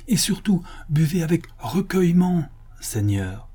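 high, insistent servant's plea; exclaiming. Acted. Majordomo reminds his master how to drink, exclaiming. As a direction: press the instruction on your master. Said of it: "s'écria Pablo".

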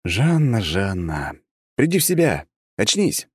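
desperate calling out her name; shouting. Acted. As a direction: shout to wake her, panicked. Narrator shouts at fainted girl.

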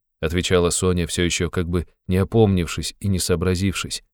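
usual speaking voice

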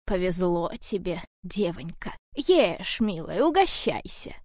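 a hint of a frail old woman pleading. Old woman coaxes Varya to eat. (слегка старушечий голос, медленно)

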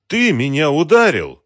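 high, loud, drawn-out exclamation; indignant outcry. Acted. Woman correcting herself after the slap, indignant cry. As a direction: accuse him, stretching out the words.

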